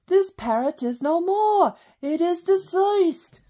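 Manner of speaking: a deliberately bad British accent quoting the parrot sketch. Vlogger quoting the Monty Python parrot sketch in a bad British accent. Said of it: "That's a really bad British accent".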